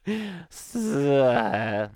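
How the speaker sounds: drawn-out hissy goat-owner noise; imitated noise. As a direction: imitate a wordless buzzing bleat. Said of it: "that's what he would say".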